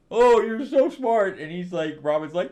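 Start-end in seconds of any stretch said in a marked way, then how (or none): 0.1-1.4 mock praise. Mocking praise of Batman.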